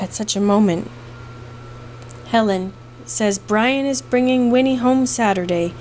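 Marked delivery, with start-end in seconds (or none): 2.3-5.7 casual. Acted. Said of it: "he announced casually".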